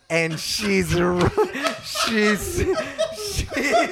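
stammering through laughter, pitch climbing; trying to talk while laughing; cracking up. Real, not acted. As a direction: keep restarting as the giggles take over. Storyteller cracks up at own story.

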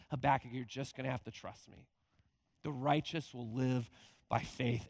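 calm, reassuring answer from above; gracious God. Retold or imitated. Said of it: "God again graciously responds and says".

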